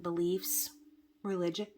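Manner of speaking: hiccups. Real, not acted. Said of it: "getting the hiccups now".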